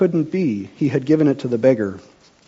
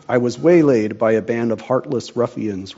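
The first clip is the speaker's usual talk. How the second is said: without emotion. Acted. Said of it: "without emotion".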